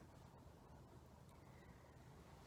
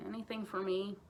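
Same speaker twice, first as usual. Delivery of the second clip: hopeful; 2 semitones lower, 6 dB quieter than usual. Acted. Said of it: "trying not to be too hopeful".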